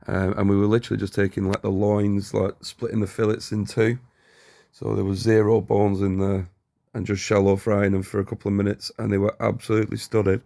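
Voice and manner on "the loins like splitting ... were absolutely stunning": tired hungover voiceover. Real, not acted. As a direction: talk like you're hungover. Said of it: "I'm doing this voiceover hungover".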